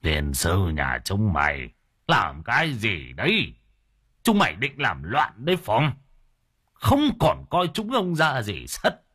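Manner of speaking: put-on old relative's stern angry rebuke; old clan elder scolding the children fighting over money. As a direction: tell the greedy brood off with contempt.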